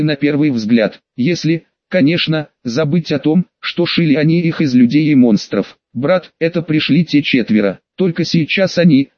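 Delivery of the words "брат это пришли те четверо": thoughtful sweet voice. Acted. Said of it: "задумчивым милым голосом отозвалась сестрёнка".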